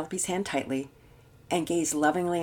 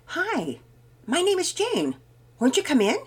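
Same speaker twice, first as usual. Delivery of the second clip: higher-pitched, smiling welcome; warm and friendly; 10 semitones higher than usual. A narrator's reading. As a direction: welcome new neighbors in with a smile. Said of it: "With a warm, friendly smile".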